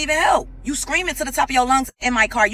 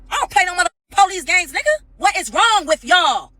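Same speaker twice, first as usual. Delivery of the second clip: angry shout; 7 semitones higher, 3 dB louder than usual. Real, not acted. The speaker yells at Dennis over the police games, loud and high. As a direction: yell it at him, fed up.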